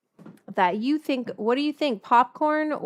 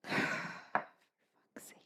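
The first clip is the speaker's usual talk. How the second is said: muttered sigh; 14 dB quieter than usual. Real, not acted. After the spill.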